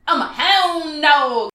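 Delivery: slow, loud cute quote; childlike puppy voice. Retold or imitated. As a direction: say it like a proud little puppy. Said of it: "my favorite line is".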